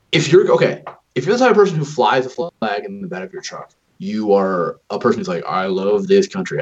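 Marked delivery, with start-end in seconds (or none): 5.4-6.6 lightly put-on southern accent; a hint of mock southern patriot. Imitating a flag-flying truck owner, light southern accent. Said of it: "I don't know why he has a southern accent".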